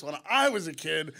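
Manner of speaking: ordinary talk, nothing marked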